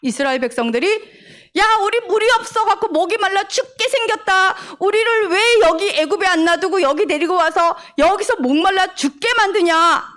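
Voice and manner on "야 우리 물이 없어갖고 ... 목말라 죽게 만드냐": higher, whiny grumbling crowd voice; complaining Israelites. Acted. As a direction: grumble like thirsty people blaming their leader. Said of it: "물이 없어서 뭐라고 했어?". (목말라 불평하는 백성 목소리)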